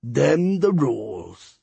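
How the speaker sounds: slow, raspy skeleton voice; deep raspy voice. A narrator's reading. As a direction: drag the words out, rasping. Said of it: "with a deep, raspy voice".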